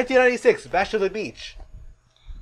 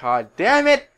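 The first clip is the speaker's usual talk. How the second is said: higher, louder mock exasperation; mock outburst; 6 semitones higher, 5 dB louder than usual. Commentator cursing a crooked match, mock outburst. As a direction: curse it like an outraged commentator.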